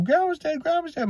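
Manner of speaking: high-pitched imitation of a distraught kid; retold crying out. Child telling Mom that Grandma's dead, imitated crying out. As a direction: act out a child calling to Mom in alarm. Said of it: "crying out loud to Mom".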